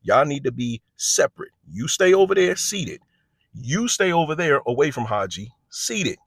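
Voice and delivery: firm command. Retold or imitated. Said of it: "And I'm like".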